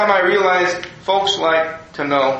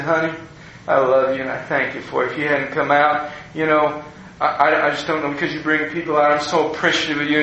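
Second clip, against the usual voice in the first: retold tender thanks, lightly lowered voice; oozing sweetness; 4 semitones lower, faster than usual. Pastor kneels to thank an elderly woman, oozing sweetness. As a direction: gently imitate oozing love and gratitude. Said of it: "ooze just like her".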